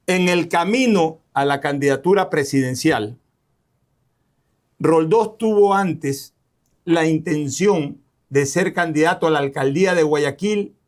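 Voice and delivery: spaced-out phrases with clear pauses. Real, not acted. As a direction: repeat the question slowly so he can follow. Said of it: "Voy a hablar más despacio".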